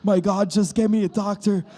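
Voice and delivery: loud, high, desperate begging; sick caller pleading on hold, loud and frantic; mock desperate plea. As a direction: beg for a doctor, hammed up. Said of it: "as you're going".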